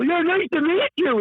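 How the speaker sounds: high, slow, sugary nice-to-meet-you; mock polite greeting. Mocking the timid guest meeting a CEO, high and slow. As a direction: play the bland handshake guy. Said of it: "I'm not the kind of go".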